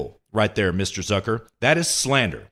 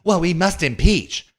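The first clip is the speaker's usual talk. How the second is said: higher, slower mock surrender; mock resigned Pelosi; 7 semitones higher than usual. Host mocking Pelosi caving on impeachment, higher and slower. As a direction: play a reluctant convert. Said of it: "is gonna fall in lockstep and say".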